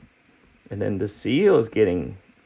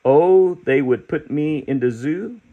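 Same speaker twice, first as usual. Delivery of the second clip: proud creature; 4 semitones higher than usual. Acted. Creature showing the children his rainbow, proud and high. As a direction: boast about every colour.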